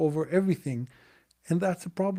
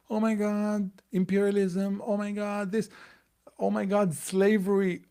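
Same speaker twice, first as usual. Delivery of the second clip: higher, exaggerated mock outrage; mocking brainwashed whining; 5 semitones higher than usual. Mocking brainwashed Americans to viewers, higher-pitched whiny outrage. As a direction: parody the gullible crowd's gasping complaints. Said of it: "brainwashing all you guys about".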